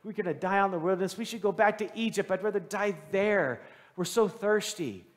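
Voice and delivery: mock grumbling of weary travelers; lightly acted whiny grumble. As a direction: complain on their behalf, dragging out the last words. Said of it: "they start grumbling".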